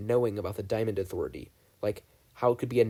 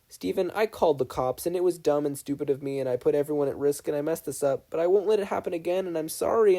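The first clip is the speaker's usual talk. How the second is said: higher, fast, tumbling apology; a guilty boy apologizing in a rush; 5 semitones higher than usual. Acted. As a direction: blurt it all out before you lose nerve. Dipper's rushed apology.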